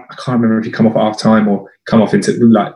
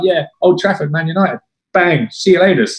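higher-pitched, light Dutch impression; a hint of Dutch accent, pitched up; 5 semitones higher than usual. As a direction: imitate a cocky Dutchman, lightly. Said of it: "He had this Dutch accent".

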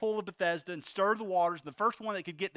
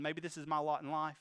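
soft, lower resigned murmur; resigned giving up; 4 semitones lower, 6 dB quieter than usual. Retold or imitated. Preacher voicing the invalid after decades of waiting, resigned. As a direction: let it sink, as if hope has run out. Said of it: "just kinda giving up".

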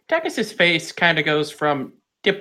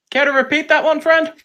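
higher and louder, cocky; smug challenge; 13 semitones higher, 4 dB louder than usual. Acted. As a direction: toss it back with swagger. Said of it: "look at him and go".

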